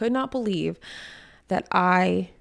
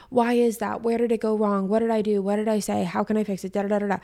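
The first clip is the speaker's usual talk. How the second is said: mock panicked string of questions; freaking out; 2 semitones higher than usual. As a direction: rattle off the questions as if lightly panicking. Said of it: "instead of freaking out".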